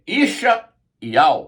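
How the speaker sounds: "Isha Iau" slowly, in two separate parts; demonstrated pronunciation. Shown as a demonstration. Teacher showing Isaiah's Hebrew name, demonstrated pronunciation. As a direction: sound out "Isha", then "Iau", deliberately. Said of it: "o nome de Isaías é".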